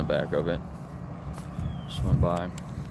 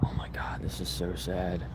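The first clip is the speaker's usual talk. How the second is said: real, whispered sorrow, much softer; hushed whisper; 9 dB quieter than usual. Real, not acted. Filming near grieving family, real hushed whisper. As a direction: breathe it out quietly, shaken. Coroner at a young girl's death.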